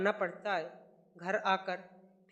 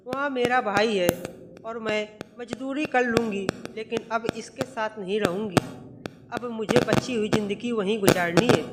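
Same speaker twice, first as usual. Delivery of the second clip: loud, stubborn mother refusing; mother shouting she will leave for good; angry refusal; 6 dB louder than usual. Acted. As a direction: dig in and raise your voice. Mother refuses to stay, quarrel.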